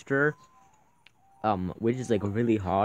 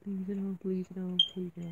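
anguished denial; 6 semitones higher, 5 dB quieter than usual. Real, not acted. Frightened by scene in game.

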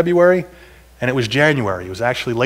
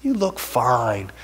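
put-on girlfriend's line; 3 semitones lower, 4 dB quieter, much slower than usual. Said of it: "she says".

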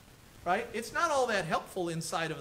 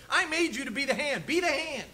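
higher, firm declaration of God's voice; God's firm command; 5 semitones higher than usual. Retold or imitated. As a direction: proclaim it as God's clear order. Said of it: "God says".

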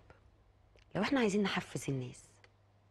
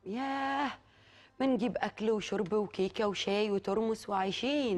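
excited picnic dreaming; 5 semitones higher, slower than usual. Real, not acted. Host dreams of picnic food.

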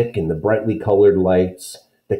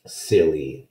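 scoffing; 4 semitones lower, 4 dB quieter than usual. Acted. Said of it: "Anne-Marie scoffed".

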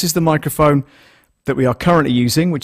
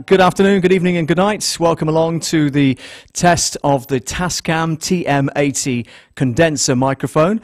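louder, lifted presenter welcome; raised, projected announcer delivery; livestream host intro; 3 semitones higher, 4 dB louder than usual. Shown as a demonstration. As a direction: open the show like a livestream host. Performs his usual livestream welcome.

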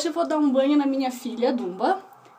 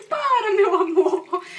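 slow, higher and louder through laughter; laughing plea; 7 semitones higher, 8 dB louder, slower than usual. Real, not acted. Mom pleading with her screaming dog, laughing. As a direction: beg her to stop while cracking up.

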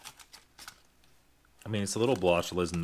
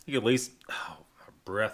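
whispering. Real, not acted. Whispers while checking the sugar.

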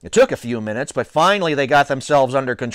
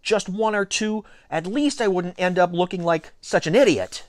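hopeful thought; 6 semitones higher than usual. A narrator's reading. Boy hoping not to look an idiot, high wishful thought. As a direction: plead inwardly in a raised pitch. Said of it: "I thought".

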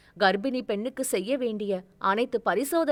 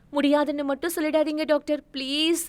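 begging; 5 semitones higher, faster than usual. Acted. Begging at the doctor's feet.

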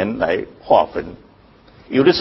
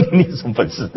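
laughing. Real, not acted. Laughing while speaking.

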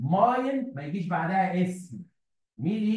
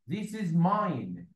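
slow dictation; much slower than usual. Shown as a demonstration. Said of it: "يعني اقول لك ايه؟".

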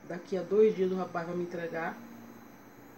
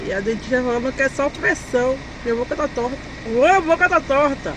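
talking through a numb, crooked mouth; 6 dB louder than usual. Real, not acted. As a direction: speak like the anesthetic just kicked in. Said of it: "eu tô sentindo minha boca torta".

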